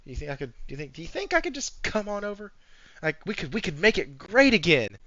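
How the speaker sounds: soft, meek begging; lightly voiced nervous ex-employee; sheepish phone plea. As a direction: quietly ask for the job back. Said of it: "on the phone going".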